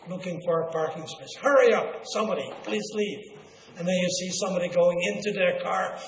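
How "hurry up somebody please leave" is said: impatient. Acted. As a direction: urge someone out of a parking space. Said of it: "We don't like to wait".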